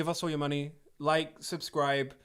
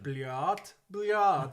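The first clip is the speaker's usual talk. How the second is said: mock Russian; 4 dB louder than usual. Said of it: "In Russian style".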